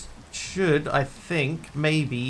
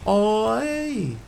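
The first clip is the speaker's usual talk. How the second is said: put-on louder, higher Kiwi accent, hey swooping up; 7 semitones higher, 4 dB louder than usual. Streamer showing chat a Kiwi accent, hammed-up greeting. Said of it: "speak with a Kiwi accent".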